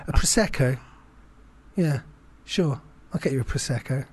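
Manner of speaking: bright, forced friendliness with a laugh behind it; fake cheerful politeness. His spoken reply to the ex-girlfriend, fake cheerful. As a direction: cover the irritation with a chirpy yes. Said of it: "I was just like".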